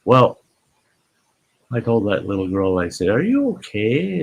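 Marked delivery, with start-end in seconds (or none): 3.1-4.2 high, gentle asking; retold concern, pitched high; concerned check. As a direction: check on an upset little kid. Boy checks on crying girl.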